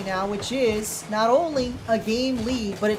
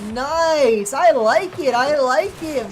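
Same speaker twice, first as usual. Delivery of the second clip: excited cheer; 3 semitones higher, 6 dB louder, much slower than usual. Real, not acted. Cheering the goal.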